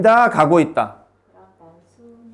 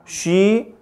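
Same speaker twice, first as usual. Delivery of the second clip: slow dictation; much slower than usual. Shown as a demonstration. Teacher dictating example sentence.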